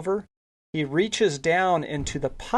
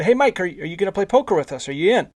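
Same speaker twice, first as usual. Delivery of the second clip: retold eager invite, higher and quicker; lightly acted upbeat question to a teammate; calling out an invite; 4 semitones higher, 3 dB louder, faster than usual. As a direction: rattle off a friendly invitation. Teammate calling him into game.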